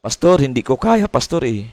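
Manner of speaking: mock-whining believer, dropping at the ends; whiny church member. Church member complaining to the pastor, lightly mock-whiny. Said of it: "Yun ang sinasabi".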